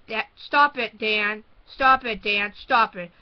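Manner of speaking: loud pleading yells; scream. Retold or imitated. Girl screaming at her brother to stop. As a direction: shout at him to stop, over and over. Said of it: "I would scream".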